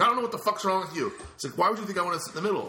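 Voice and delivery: high, loud and fast exasperated retort; imitating an angry friend; indignant outburst. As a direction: fire it back, fed up. Dave angry in retold argument.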